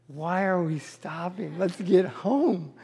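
slow, drawn-out mock grumble; complaining kids. Tired kids protesting a museum stop, mock complaining. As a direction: imitate weary kids dragging out a complaint.

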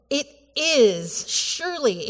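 SURELY pitched high and falling; emphatic. Shown as a demonstration. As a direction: lean firmly on "surely". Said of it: "is really emphatic".

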